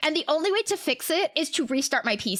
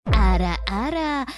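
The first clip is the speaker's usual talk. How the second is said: anime ara ara; 5 semitones lower, 4 dB louder than usual. Pretend. Anime catchphrase while panicking.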